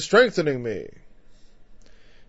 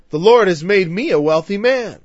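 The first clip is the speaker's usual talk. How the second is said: a fuller mock Southern preacher accent, a bit louder; retry the Southern preacher impression with more punch; 3 semitones higher, 5 dB louder than usual. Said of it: "Someday I'm gonna get that out".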